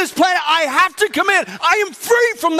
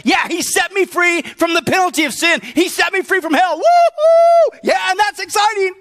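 mock cheering; 2 semitones higher than usual. Mock joyful believer voice.

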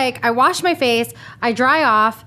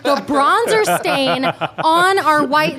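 laughing, slowed and higher; 5 semitones higher, slower than usual. Real, not acted. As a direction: laugh through the words. Laughing while retelling.

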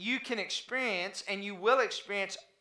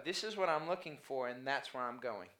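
quiet resolve; 9 semitones lower, 12 dB quieter than usual. Acted. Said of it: "unless you go".

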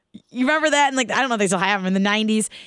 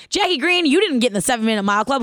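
put-on taunting kid; 3 semitones higher, faster than usual. Bratty classmate Chad mocking her pin, quick and taunting. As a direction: needle her like a bratty boy.

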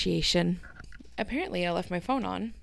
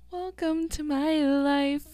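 high, slow, laughed-out phrase; helpless high-pitched laugh on the words; 9 semitones higher, slower than usual. Real, not acted. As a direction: stretch it out through real laughter. Laughing at own messy closet.

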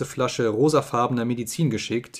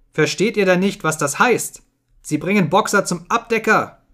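raised, exasperated alarm; urgent exclamation; 7 semitones higher, 4 dB louder than usual. A narrator's reading. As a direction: drive the terrible news home, high and urgent. Benjamin desperately warns the animals.

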